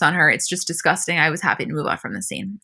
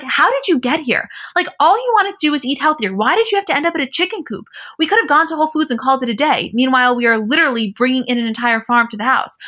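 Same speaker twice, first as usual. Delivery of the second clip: higher-pitched, mock-exasperated questioning; exasperated disbelief; 5 semitones higher, 3 dB louder than usual. Podcast host acting out her exasperated reaction to the chicken farm. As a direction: retell it as an incredulous rant.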